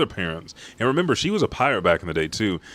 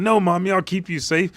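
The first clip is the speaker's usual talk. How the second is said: put-on child's promise; 11 semitones higher, 4 dB louder, faster than usual.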